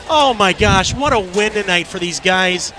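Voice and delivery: breathless after the big call; catching breath between words. Real, not acted. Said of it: "I'm trying to catch my breath".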